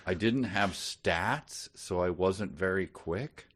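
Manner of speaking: slow, grand mock recitation; mock solemn reading. Shown as a demonstration. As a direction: read it as if it were great literature.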